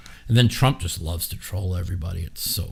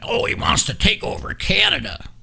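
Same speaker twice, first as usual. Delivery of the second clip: much higher silly gasping mock voice; mocking panicked critics. Streamer mocks critics panicking about Canada, high shrieky parody. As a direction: play the hysterical critic. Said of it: "everybody went".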